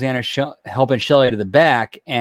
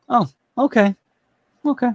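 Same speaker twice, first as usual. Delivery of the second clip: sarcastic; 11 semitones higher than usual. Retold or imitated. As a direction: say it with heavy sarcasm. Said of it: "the sarcastic".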